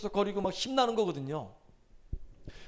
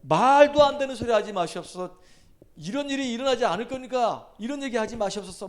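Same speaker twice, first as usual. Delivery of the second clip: loud pleading protest, pitch up; 4 semitones higher, 4 dB louder than usual. Acted. Peter protesting loudly to Jesus, pleading. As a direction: argue back hard, begging him to stop. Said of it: "항변하매".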